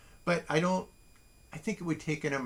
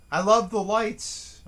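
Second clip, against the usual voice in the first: higher and louder, stretching out "love" on a slow rise; emphatic love; 7 semitones higher, 7 dB louder than usual. Real, not acted. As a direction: gush over the lights, leaning hard on "love". Gushing about Christmas lights.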